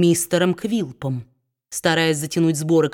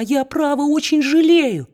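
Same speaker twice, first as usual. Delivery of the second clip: higher, pleading babble; timid wife; 8 semitones higher than usual. A narrator's reading. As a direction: babble it higher, meek and anxious. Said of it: "пролепетала его жена". (жена робко лепечет мужу, голос выше)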